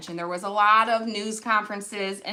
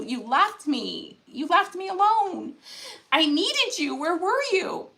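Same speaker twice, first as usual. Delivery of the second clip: retold plea. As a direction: act out someone crying out to God, building gently. Acts out footprints prayer's reproach.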